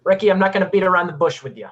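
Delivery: loud, fast, blunt opening; forceful and rapid-fire; heated confrontation. Acted. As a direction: barge in with heat, straight to business. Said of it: "come in with so much heat".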